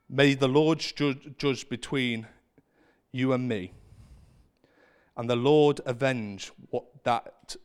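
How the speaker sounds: voice giving out. Real, not acted. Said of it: "Sorry, I'm losing my".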